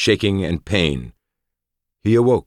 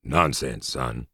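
purring; 2 semitones lower, 4 dB quieter, much slower than usual. Acted. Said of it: "purred the doctor".

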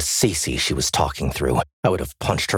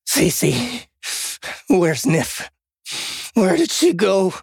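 high, urgent questioning; frantic pleading; 14 semitones higher, slower than usual. A narrator's reading. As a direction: beg for an answer, pitched way up. Frantic search for the missing girl.

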